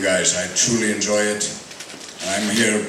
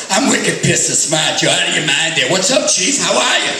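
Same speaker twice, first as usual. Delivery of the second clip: put-on Boston accent; 5 semitones higher than usual. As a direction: lay on a thick Boston accent. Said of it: "Everybody else is doing Boston accents".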